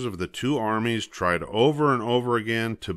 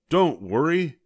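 eager reassurance; 7 semitones higher, 4 dB louder than usual. Acted. Fifth brother interrupting reassuringly.

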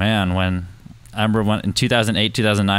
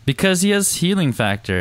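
whisper; 8 semitones higher than usual. Real, not acted. Whispered answer to joke.

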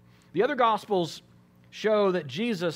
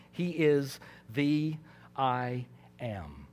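reverent hush; 4 semitones lower, 5 dB quieter, much slower than usual. Real, not acted. Hushed climax of point.

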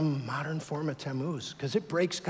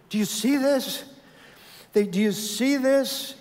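God's voice; 7 semitones higher than usual. Acted. God voiced showing Ezekiel the idolatry.

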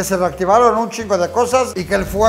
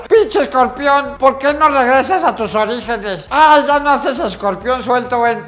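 mocking whiny fan; 2 semitones higher than usual. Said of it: "la gente estúpida pregunta".

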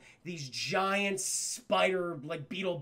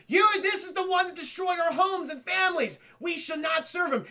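put-on young alien voice; 9 semitones higher, 4 dB louder than usual. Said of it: "in the spacesuits goes".

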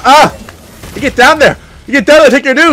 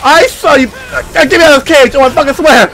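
raised, excited taunting; worked-up, higher-pitched gamer trash talk; excited callout; 4 semitones higher than usual. Real, not acted. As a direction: call out the enemy you've spotted. Calling out a spotted game enemy.

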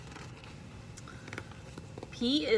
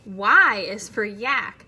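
loud restart; 9 dB louder than usual. Real, not acted. Loud after correction.

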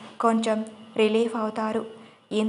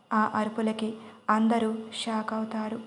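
ordinary delivery

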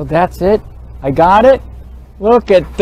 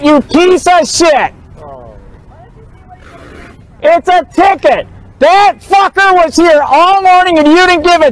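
angry cursing; 4 semitones higher than usual. Real, not acted. Cursing at the second officer.

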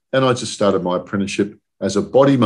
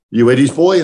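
loud, higher-pitched mock-intimidating question; retold angry man; 7 semitones higher, 8 dB louder than usual. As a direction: lightly play the scary boss calling out. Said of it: "'cause he's really angry".

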